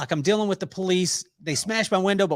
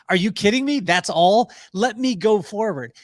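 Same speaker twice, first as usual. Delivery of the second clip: put-on childlike eagerness; 2 semitones higher, 4 dB louder than usual. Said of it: "I would have been like".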